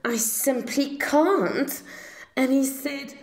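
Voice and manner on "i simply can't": higher, apologetic little voice; lightly voiced shy baby Tyrannosaurus; timid baby dinosaur. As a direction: sound sweet and sorry. Baby dinosaur refuses meat.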